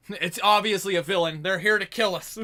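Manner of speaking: loud and high, joking; mock alarm. Real, not acted. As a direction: play it as joking panic.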